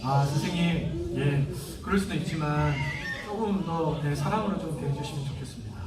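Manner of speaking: gently, respectfully ask; polite request. Shown as a demonstration. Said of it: "정중하게 해야지".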